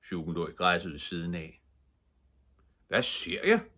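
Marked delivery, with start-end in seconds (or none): 2.9-3.6 high surprised exclamation; exclaiming. Acted. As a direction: burst out in mock surprise. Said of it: "udbrød kommissæren".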